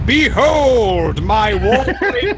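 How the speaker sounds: high, slow, laughing through a fan; drawn out, voice chopped by a fan. Acted. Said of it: "I am talking through a fan".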